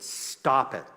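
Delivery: firm self-command, mildly forceful; a touch of no-nonsense firmness; rational inner voice. Retold or imitated. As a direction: cut in as your own stern voice of reason. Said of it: "the rational voice in my head said".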